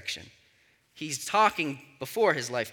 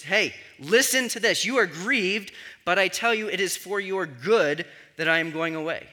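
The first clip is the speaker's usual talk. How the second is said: calm, not yelling. Shown as a demonstration. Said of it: "He's not yelling. It's not angry".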